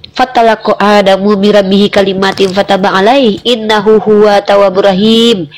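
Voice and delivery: low, measured recitation of a verse; solemn scripture recitation. Real, not acted. Debater reciting the Quran verse on Adam's forgiveness, solemn recitation. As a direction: recite it low and evenly, drawing out the ending.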